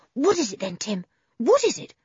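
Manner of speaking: eager, rising questions; excited cry. Acted. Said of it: "cried George at once".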